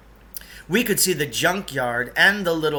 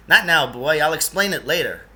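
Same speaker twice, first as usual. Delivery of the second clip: raised, brisk brush-off; louder curt dismissal; Lance dismissing; 4 dB louder than usual. Acted. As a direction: wave the boy off firmly. Character voice of Lance.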